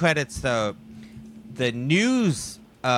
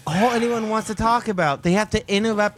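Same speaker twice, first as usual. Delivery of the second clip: exasperated rant; 9 semitones higher, 4 dB louder than usual. Retold or imitated. Outraged childhood TV interruption rant.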